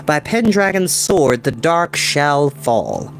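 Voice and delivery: slow, measured verse; slow reading aloud. Acted. Will reading the grail verse aloud, slow and measured. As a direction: read each line carefully. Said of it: "Slowly he read aloud".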